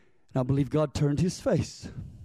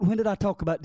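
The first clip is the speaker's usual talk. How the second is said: ordinary talk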